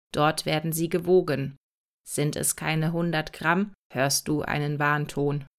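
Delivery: a hint of a calm, patient robot explaining; robot Cäsar.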